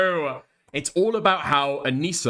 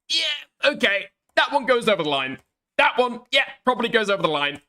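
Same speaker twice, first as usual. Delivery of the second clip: emphatic; 9 semitones higher, 3 dB louder than usual. Real, not acted. Heated point about offensive accents.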